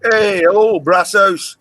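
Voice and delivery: big drawn-out welcome; calling out a greeting. Real, not acted. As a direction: hail a newcomer loudly. Greeting a viewer who just arrived.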